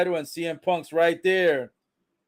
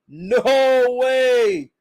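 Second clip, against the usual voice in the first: disbelief; 7 semitones higher, 6 dB louder than usual. Real, not acted. Reacting to Punk's return.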